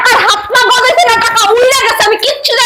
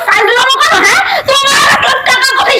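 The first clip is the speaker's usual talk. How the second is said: wife shouting and near tears at her husband over the missing money; tearful shout. Acted. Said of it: "এই দেখো, চেঁচামেচি করবে না।".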